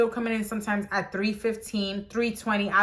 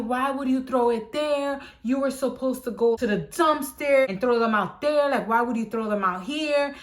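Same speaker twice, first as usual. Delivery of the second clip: freaking out; 4 semitones higher than usual. Retold or imitated. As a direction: imitate the boss losing it over the mice. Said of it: "He started freaking out".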